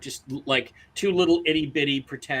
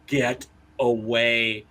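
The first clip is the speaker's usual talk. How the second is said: drawn-out, very slow warning; slow imitated menace; mock warning; 3 semitones lower, much slower than usual. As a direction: stretch each word into a warding-off command.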